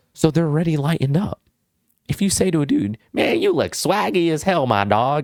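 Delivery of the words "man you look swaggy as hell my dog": silly, playful, goofy bro-style delivery. Showing how to compliment a guy: goofy way. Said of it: "you say it in a goofy way".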